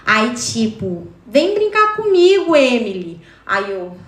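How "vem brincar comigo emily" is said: creepy call. Retold or imitated. Creepy voice calling her to play.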